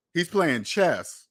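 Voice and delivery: playing chess, drawn out slowly with weight on playing; slow emphatic. Real, not acted. Telling viewers Elon is ahead, slow and weighty. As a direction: land it slowly, word by word. Repeats his chess point.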